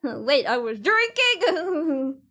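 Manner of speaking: laughing through the words. Real, not acted. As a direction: giggle while you speak. Laughing at herself.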